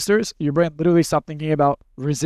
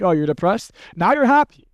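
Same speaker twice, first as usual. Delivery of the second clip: mock sudden cheer. Shown as a demonstration. Coach mocking someone who pushes a depressed person too fast, sudden mock cheer. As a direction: snap from sympathy to a bright burst. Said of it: "people go too fast".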